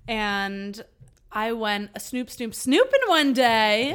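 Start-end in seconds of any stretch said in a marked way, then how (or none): 2.3-3.9 slow, drawn-out sneaky words; stretched out. Retold or imitated. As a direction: draw each snoop out slowly.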